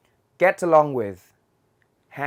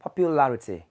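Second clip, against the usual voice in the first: British accent. Shown as a demonstration. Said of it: "Người Anh sẽ là popularity".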